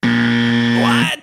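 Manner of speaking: loud stunned what; loud what of disbelief at the answer; shocked what. Real, not acted. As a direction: blurt it out in disbelief. Told answer was wrong.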